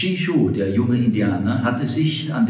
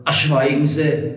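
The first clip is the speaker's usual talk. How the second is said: snapping at him; 4 semitones higher than usual. Acted. Frank cuts off the cantor, a mild snap. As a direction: cut him off sharply. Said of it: "fuhr Frank ihn an".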